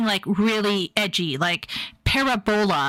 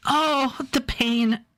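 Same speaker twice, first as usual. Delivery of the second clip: mock pain; 4 semitones higher, much slower than usual. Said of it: "I'm not tearing up".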